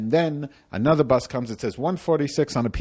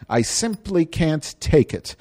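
melodramatic; 6 semitones higher, slower than usual. Acted. Melodramatic plea repeated.

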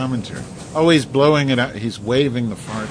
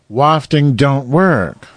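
louder and drawn out slowly; louder, slower; 3 semitones higher, 6 dB louder, much slower than usual. Shown as a demonstration. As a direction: stress it, slow and loud.

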